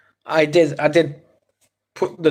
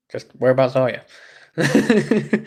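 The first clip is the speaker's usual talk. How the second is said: slow mock repeat; much slower than usual. Repeating own question slower.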